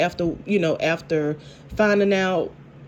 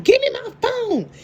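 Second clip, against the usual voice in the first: high squeaky imitation of an upset girlfriend; imitating Tamara grabbing for her phone; mock demand. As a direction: pitch it way up, pleading for the phone back.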